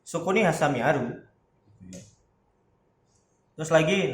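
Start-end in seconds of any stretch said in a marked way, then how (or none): 0.0-1.2 "aru" lifted at the end; rising question intonation. Shown as a demonstration. Teacher correcting to the asking form, rising on "aru". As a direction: raise "aru" to turn it into a question. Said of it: "Pokoknya nadanya naik".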